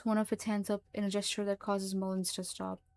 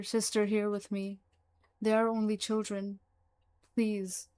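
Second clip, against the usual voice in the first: louder desperate begging; pleading; 3 dB louder than usual. Acted. Frightened creature begs Mullins, pleading louder. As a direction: beg for the children's lives. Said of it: "as it tries to plead".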